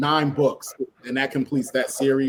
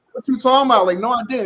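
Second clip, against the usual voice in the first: a guy playing dumb, pitched much higher and louder; mock denial; 11 semitones higher, 6 dB louder, faster than usual. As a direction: squeak out a fake innocent denial. Retelling characters' argument in comic.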